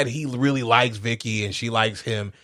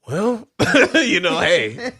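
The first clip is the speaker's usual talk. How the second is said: laughing mock excuse; 5 semitones higher, much slower than usual. Imitating a losing team's excuse.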